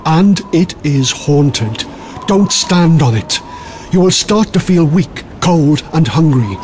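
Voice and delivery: slow, ominous campfire telling; slow it right down to scare them; ghost story telling. A narrator's reading. Warning listeners about haunted hungry grass, slow and ominous.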